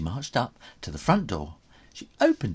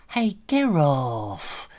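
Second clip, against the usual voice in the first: complaining; 4 semitones higher, slower than usual. Acted. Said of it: "complained the Swamp Man".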